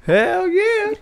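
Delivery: high, hyped cheer; excited. Acted. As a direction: whoop it like a fan. Cheering the tour idea.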